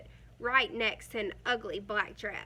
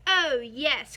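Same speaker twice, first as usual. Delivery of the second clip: put-on louder, eager kids' reply; happy cry; 7 dB louder than usual. A narrator's reading. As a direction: shout it gladly. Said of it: "cried the kids".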